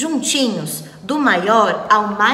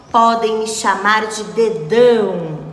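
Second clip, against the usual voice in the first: louder, lightly thickened villain voice; deeper villain voice; 4 dB louder than usual. Acted. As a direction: push the voice down into a villain. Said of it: "e engrossando mais a voz".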